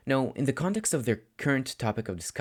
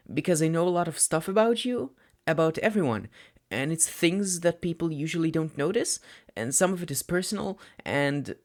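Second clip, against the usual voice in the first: put-on higher, boyish voice tumbling out anxiously; a shy boy confessing too much; lightly voiced teen boy, anxious and rushing; nervous young student; 8 semitones higher than usual. A narrator's reading. Narrator voices Midoriya.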